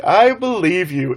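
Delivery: hammed-up declaration of trust, drawn out; mock earnest reply. Player answering the stranger in the boat, slow mock-earnest declaration.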